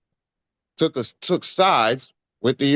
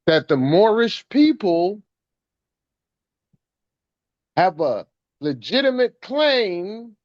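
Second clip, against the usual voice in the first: rising fervent preaching; 4 semitones higher than usual. Real, not acted. Preaching builds up.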